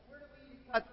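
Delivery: whispered inner question. Pretend. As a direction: ask it under your breath. Asking ourselves inwardly.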